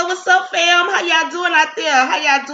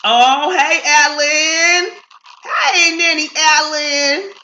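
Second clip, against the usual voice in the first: calling out; 3 semitones higher, 4 dB louder, much slower than usual. Real, not acted. Greeting a viewer, calling out.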